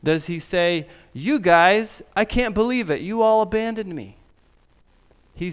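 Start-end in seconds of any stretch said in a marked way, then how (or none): 1.1-4.1 mock scolding. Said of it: "scold them".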